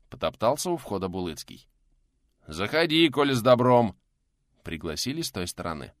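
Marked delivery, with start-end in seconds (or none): 2.5-3.9 loud call from inside. Acted. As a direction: shout the welcome through the door. Answer called from inside.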